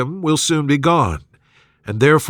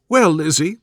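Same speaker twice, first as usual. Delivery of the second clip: higher, fretful matron voice; fussy mother; 3 semitones higher than usual. Acted. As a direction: play the gossiping mother, higher. Mrs Bennet voiced in dialogue.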